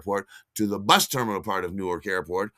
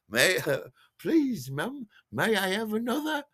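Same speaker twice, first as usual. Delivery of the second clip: put-on high, childlike begging for more; squeaky polite plea; 12 semitones higher than usual. Tripping passenger pleads with the stewardess for more champagne, high and childlike. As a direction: ask like a meek little child.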